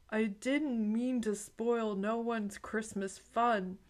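slow, tearful plea of shame; a touch of sobbing, drawn out. Acted. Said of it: "sobbed the snitcher".

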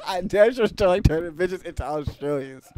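laughing gangster swagger; Pretty Tony voice. Acted. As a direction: lean into the hustler voice. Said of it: "That shit".

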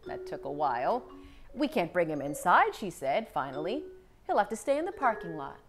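lively picture-book read-aloud; story narration. A narrator's reading. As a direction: read it to young children, clearly paced.

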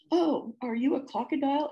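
lightly voiced, calmed-down cow; calmer. A narrator's reading. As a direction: ask with the fright easing. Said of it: "asked the cow more calmly".

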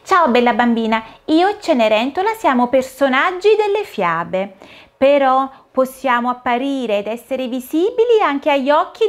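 put-on a fairy praising a good child; fond fairy farewell. Fairy says goodbye to Dorina.

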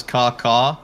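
caw call. Shown as a demonstration. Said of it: "A pterodactyl says".

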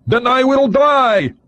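put-on high, slow, accented voice of the cornered agent; high, slow Russian-accented defiance; defiant agent. A narrator's reading. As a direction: flatly accept death, high and slow. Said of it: "the voice agreed".

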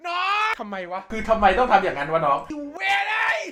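loud exasperated shout; exasperated yell. Retold or imitated. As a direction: yell it in disbelief. Yelling at the kid.

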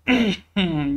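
short throat-clearing cough; chesty cough. Real, not acted. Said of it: "Yine kusura bakmayın öksürdüğüm için". (boğazını temizleyen öksürük)

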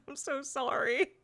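helpless amusement at your own bad accent; laughing apology. Real, not acted. Reader to listeners after attempting Cornish, laughing apology.

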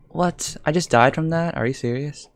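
high-pitched, incredulous protest; can't believe what just happened; disbelief. Real, not acted. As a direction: question it in stunned disbelief. Disbelief at sudden death.

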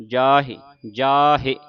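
ਜਾਹੇ loud, long aa then short "hi"; sounded sihari. Shown as a demonstration. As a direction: sound the final h vowel of ਜਾਹੇ. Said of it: "ਹਾਏ ਸਿਆਰੀ ਹੇ". (ਜਾਹੇ ਵਿੱਚ ਹਾਹੇ ਦੀ ਸਿਹਾਰੀ ਉੱਚੀ ਬੋਲੋ)

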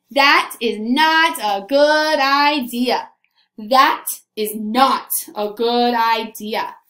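slow, deliberate book title; title announcement. Acted. Teacher unveils today's story to the class, slow and deliberate. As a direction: draw out each word of the title.

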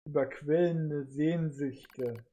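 sehr langsam und tief; genüsslich bedrohlich dehnen; langsame Drohung. Acted. Adam flüstert bedrohlich. (langsame, drohende Stimme)

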